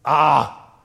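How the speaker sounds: mock panicked complaining, loud on the ah; grumbling Israelites. Preacher voicing the grumbling Israelites, hammed-up complaint. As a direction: whine like a frightened crowd wanting Egypt. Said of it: "because of report of a few men".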